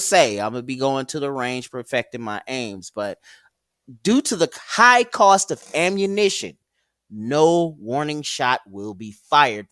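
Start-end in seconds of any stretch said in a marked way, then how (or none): 4.0-9.7 raised, higher voice stating a threat; loud warning. Real, not acted. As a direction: bark it as a hard warning. Threat speech about ammo.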